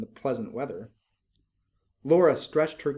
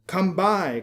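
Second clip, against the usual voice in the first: a loud, high goblin cry; goblins calling; 6 semitones higher, 5 dB louder than usual. A narrator's reading. Goblins calling to the girls, loud and high. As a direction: call it out like lurking goblins luring a girl. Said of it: "call the goblins".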